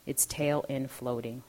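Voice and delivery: measured, deliberate literary narration; memoir reading. A narrator's reading. Author reads childhood memoir to an audience, measured narration. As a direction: read it as a composed author's reading.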